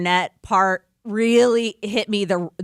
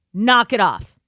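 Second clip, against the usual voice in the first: mom voice; slower than usual. Acted. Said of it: "That's my mom voice".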